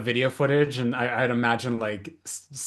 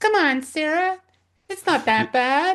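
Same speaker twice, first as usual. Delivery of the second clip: put-on very high, loud, tiny little-girl voice; 6 dB louder than usual. Recalling how someone mocked a film character's line, mocking her little voice. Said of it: "make fun of her her little like her little voice".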